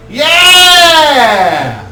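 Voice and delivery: high, loud yeah; stoner cheer. Acted. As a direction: whoop it up.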